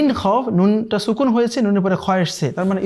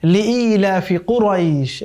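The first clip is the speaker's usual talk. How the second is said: slower, half-chanted verse; light recitation; slower than usual. Shown as a demonstration. Teacher models the first verse in half-chanted recitation. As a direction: recite the verse gently and a little drawn out. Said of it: "প্রথম আয়াত খুবই সহজ".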